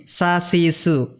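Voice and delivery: "সা, সি, সু" with the hissed s of "sun". Shown as a demonstration. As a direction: say "সা, সি, সু" with a plain s, not z. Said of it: "এই সিনের উচ্চারণ অনেকটা এসের মতো". ("সা, সি, সু", সান শব্দের এসের মতো)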